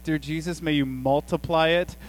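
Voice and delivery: a lightly hammed-up plea over the food; mock mealtime prayer. Dad praying over too little dinner, mock solemn. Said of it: "I begin to pray over the meal".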